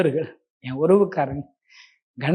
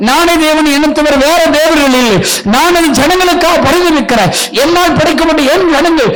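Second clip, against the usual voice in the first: a hint of a grieving God, loud and high; God pleading; 7 semitones higher, 8 dB louder than usual. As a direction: speak as the Lord mourning for his people. Voicing God who weeps.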